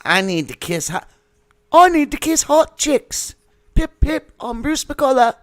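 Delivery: very high, squeaky little impression; Bruce McCullough. Comic showing a friend his Bruce McCullough, high falsetto. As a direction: pipe it up in a tiny falsetto. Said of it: "that was Bruce McCullough's ... he's like".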